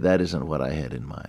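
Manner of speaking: mock-sad voice. Speaker voices someone whose friends, money and health are gone: acting out a sad reply. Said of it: "he says sadly".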